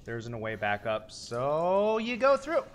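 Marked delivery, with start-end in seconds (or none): 1.1-2.6 agitated rant. Real, not acted. Frightened rant about ladder.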